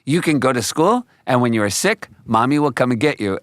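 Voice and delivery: put-on high, sweet voice of a small girl; sweet little girl voice. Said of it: "she's like".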